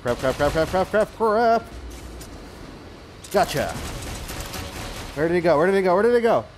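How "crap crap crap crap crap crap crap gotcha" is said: usual speaking voice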